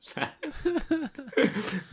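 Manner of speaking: high breaking giggle; high giggle fit. Real, not acted. Breaking up mid reading, high giggling. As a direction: burst into giggles.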